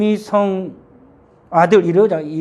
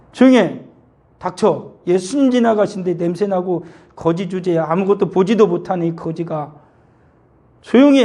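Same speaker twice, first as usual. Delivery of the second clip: imitated scolding. Crowd silences the blind beggar as Jesus passes, mock scolding. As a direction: act out an angry crowd telling a beggar off. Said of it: "꾸짖었어요".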